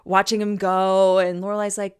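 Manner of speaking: normal talking voice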